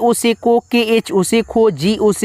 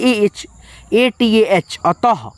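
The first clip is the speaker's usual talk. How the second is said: slow spelling out; much slower than usual. Shown as a demonstration. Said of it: "त का English टी".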